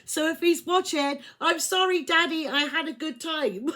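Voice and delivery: high, loud giggly sorry to dad; laughing apology. Real, not acted. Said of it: "apologising to dad on camera".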